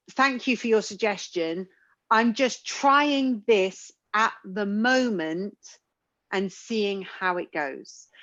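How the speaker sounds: slow, politely calm reply; calmly deflect advice. Retold or imitated. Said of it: "did try to say sometimes was".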